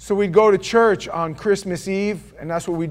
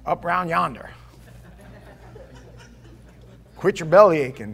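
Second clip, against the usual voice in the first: put-on Southern redneck accent. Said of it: "He used words I didn't even understand".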